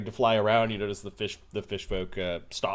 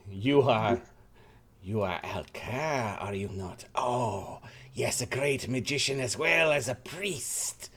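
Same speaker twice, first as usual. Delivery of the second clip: put-on French accent. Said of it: "trying to figure out his accent".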